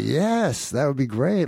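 high, gushing agreement; idiotically eager. Retold or imitated. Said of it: "like, I'm a complete idiot".

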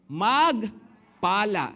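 Magpala drawn out slow and loud. Shown as a demonstration. Preacher drawing out the answer to the congregation, slow and loud. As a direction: stretch Magpala out for the crowd. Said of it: "Ano raw?".

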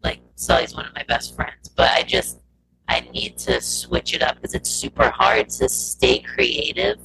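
glitchy robotic audio. Real, not acted. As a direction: voice breaking up like a robot. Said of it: "your voice went real robotic real quick".

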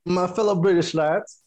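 put-on rally the lads in a British accent; playful put-on British. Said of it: "talking in that British accent".

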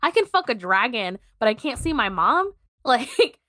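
indignant retold protest, rising in disbelief; upset client. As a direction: imitate a client who's had enough. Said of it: "the client gets fucking upset".

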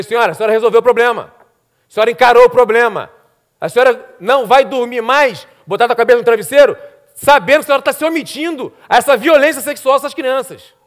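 rapid, forceful reproach; retold stern confrontation. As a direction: confront her firmly, pushing the key words. Retells confronting the woman.

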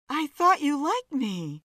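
mock mortification. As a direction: fake hurt to tease him. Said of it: "Joan cried out in mock mortification".

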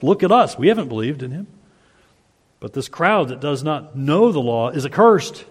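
smug superiority, looking down on the crowd; arrogant Pharisees. Retold or imitated. Preacher voicing the Pharisees boasting, light mock arrogance. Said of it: "How condescending. How arrogant".

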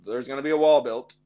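a lightly put-on Mexican accent for laughs; mock Mexican accent. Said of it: "Flawless Mexican accent".

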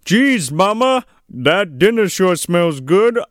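hammed-up stage voice; mock Santa. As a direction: overplay it for the eavesdropper. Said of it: "Santa's like".

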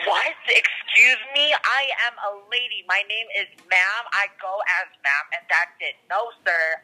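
hammed-up outrage at being misgendered; indignant. Caller called sir by host, mock indignant.

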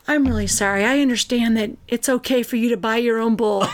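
hammed-up sober making-up speech; mock contrite sister. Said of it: "she'll come in and goes".

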